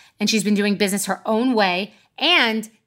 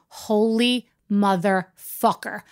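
slow, drawn-out stunned curse; much slower than usual. Retold or imitated. Realizing the story is live, a slow stunned curse. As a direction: let the shock sink in slowly.

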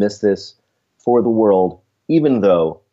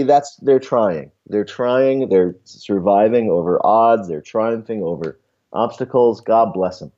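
lounge singer voice; 3 semitones higher than usual. Pretend. Lounge act voice in a parody.

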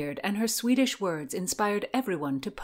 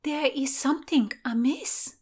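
higher-pitched lady's voice; Christina; 8 semitones higher than usual. A narrator's reading. Christina warns of something amiss, lady's higher voice. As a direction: voice a watchful lady, pitched up.

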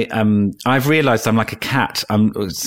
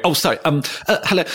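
flustered apology; 9 semitones higher, faster than usual. Retold or imitated. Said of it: "I'm like, going".

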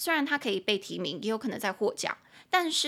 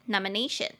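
"nomination" with the weight on NA; stress on third syllable. Shown as a demonstration. Teacher showing stress in "nomination", stressing NA. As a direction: lean on the NA in "nomination". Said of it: "就音节在第三音节".

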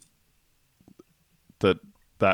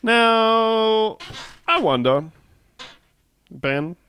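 mock host voice; 11 semitones higher, much slower than usual. Mock grand segment intro.

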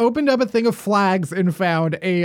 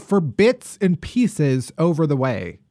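mock Australian accent. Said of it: "I'll try it in an Australian accent".

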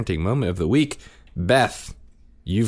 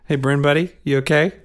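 high, sweet sing-song; fake-concerned little sister; mock cheerful; 10 semitones higher, 5 dB louder than usual. Dad imitating daughter teasing her upset brother. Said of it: "just real cheerfully".

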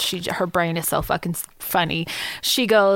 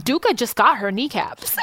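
laughing through a quote. Retold or imitated. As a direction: quote the child while bursting out laughing. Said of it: "She goes".

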